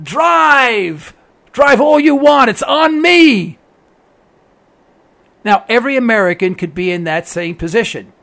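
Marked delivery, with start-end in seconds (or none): 0.0-3.6 higher, slow and taunting, dragging out be stupid; mock taunt. Investor host taunting drivers, higher and slow mocking plea. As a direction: gloat at the country as if doing it a favour. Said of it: "And I say".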